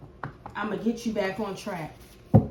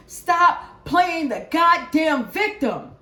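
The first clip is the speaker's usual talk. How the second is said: stern scolding; 4 semitones higher, 6 dB louder, slower than usual. Real, not acted. Scolding viewers.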